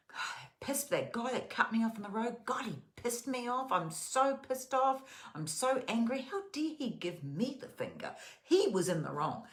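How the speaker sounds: high, loud, fuming mock rant about a driver; mock furious complaint about the guy who cut you off; mock angry rant. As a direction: play someone still seething over being cut off. Acted angry bedtime rant.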